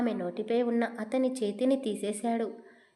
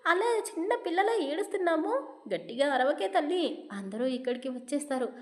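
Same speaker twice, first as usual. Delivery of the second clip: hushing; 5 semitones higher than usual. Acted. Hushing Siri who is crying.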